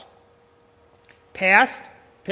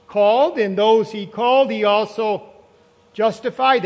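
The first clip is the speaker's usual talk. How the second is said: louder, punchy proclaiming of each word; emphatic proclaiming; 4 dB louder than usual. Real, not acted. Preacher to congregation, proclaiming the answer loudly. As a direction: ring out the answer to the room.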